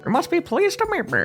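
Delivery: put-on pinched nasal old gent; nasal Kinger voice. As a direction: squeeze it through the nose like Kinger. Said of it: "He has, like, a nasally voice".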